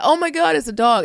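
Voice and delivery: mock panic. Mocking his panic at poodle.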